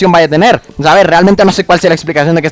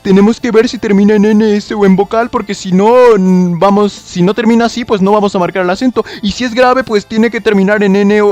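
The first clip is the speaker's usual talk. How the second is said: mock pedant; 4 semitones higher than usual. Mock voice of rule followers.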